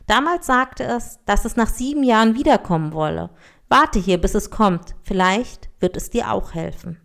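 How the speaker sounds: expressive fairy-tale read-aloud; story narration. A narrator's reading. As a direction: read a fable aloud with lively character lines. Reads an African tale aloud. (Märchen vorlesen)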